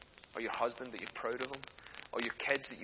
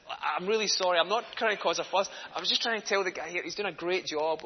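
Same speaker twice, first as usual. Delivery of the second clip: higher, louder, over-earnest apology; flustered apology; 5 semitones higher, 4 dB louder than usual. Retold or imitated. Diner explaining himself to the manager, flustered apology. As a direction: act out apologising to avoid a fuss.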